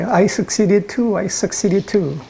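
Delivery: eager imps. Acted. Other imps coming back to report, lightly eager. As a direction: chime in one after another.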